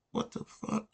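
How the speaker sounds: whispered shocked aside; stunned. Retold or imitated. Father seeing the baby isn't his, whispered shock. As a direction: breathe it under your breath in disbelief.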